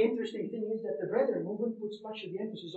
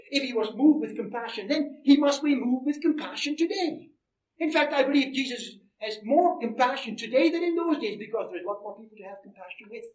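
emphatic, raised preacher's voice; impassioned preaching; 5 semitones higher, 7 dB louder than usual. Real, not acted. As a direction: preach it with rising conviction. Preaches with rising force.

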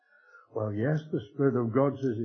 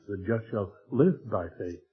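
"live" gets the weight of the line; stress on live; 2 semitones lower than usual. Shown as a demonstration. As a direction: lean into "live". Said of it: "he put the emphasis there on the life".

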